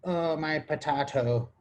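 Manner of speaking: slow mock Irish accent. Podcaster sampling the Irish accent for listeners, mock Irish accent. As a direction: put on a stage Irish lilt, drawn out. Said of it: "the Irish accent".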